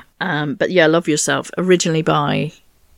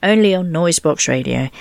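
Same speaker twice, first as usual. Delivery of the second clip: posh accent; 2 semitones lower than usual. Shown as a demonstration. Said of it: "and that's my posh accent".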